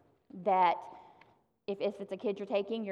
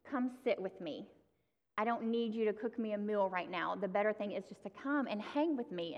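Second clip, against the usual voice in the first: gentle Jesus; 3 dB quieter than usual. Retold or imitated. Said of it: "And he's just so gentle".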